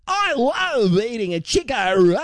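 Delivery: high, slow, drawn-out put-on kid voice. Host imitating some kid in an AI clip, silly kid voice. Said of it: "some kid and he'll be like".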